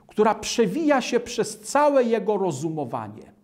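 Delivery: normal talking voice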